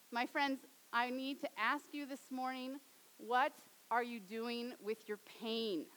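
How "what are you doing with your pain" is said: slow question. Real, not acted. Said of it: "repeated sermon question".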